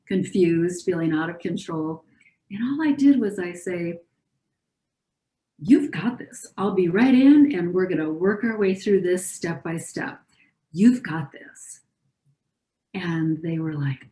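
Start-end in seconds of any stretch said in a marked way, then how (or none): 5.6-11.8 confident, reassuring tone. Retold or imitated. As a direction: take charge calmly so they relax. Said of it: "simple shift in tone, same words, different intonation".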